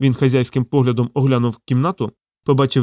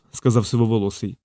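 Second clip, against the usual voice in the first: ordinary delivery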